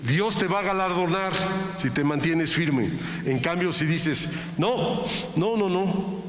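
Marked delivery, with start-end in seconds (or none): 4.6-6.2 giving up. Pretend. Quitter refusing, higher voice.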